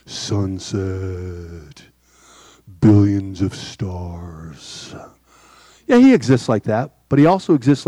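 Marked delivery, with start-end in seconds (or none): 0.0-4.9 low, slow, hushed whisper of awe; awed hush. Acted. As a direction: breathe the words out in wonder. Awed pause listing God's creation.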